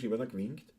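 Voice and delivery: broad Viennese dialect pronunciation. Shown as a demonstration. Asking listeners how Vienna would say it, in Viennese. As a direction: run it together as casual Viennese, softly. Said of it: "sagt man nicht eher auf Wienerisch".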